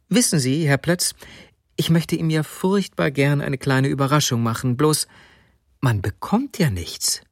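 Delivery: lightly voiced woman, wistfully confiding; a hint of an eager wife.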